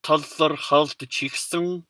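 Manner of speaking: Tazarhaztchiksung stretched out so every vowel is heard; slowly. Shown as a demonstration. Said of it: "especially slowly".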